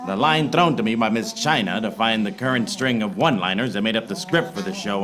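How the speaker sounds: hard-boiled voiceover, even and dry; noir detective narration. Acted. Detective narrating his case to the audience, dry noir voiceover. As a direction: narrate like a tired private eye.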